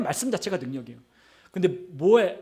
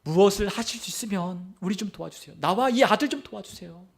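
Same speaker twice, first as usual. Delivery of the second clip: lightly acted father's plea; mild imploring; pleading request; 2 semitones higher than usual. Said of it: "도움을 요청하는 거예요".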